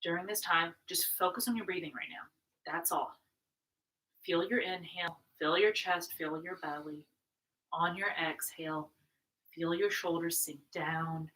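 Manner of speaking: soft, settling yoga-teacher voice; guided breathing. Real, not acted. Yoga teacher settling the class into breathing, soft guidance. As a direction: guide them gently into their breath, softly.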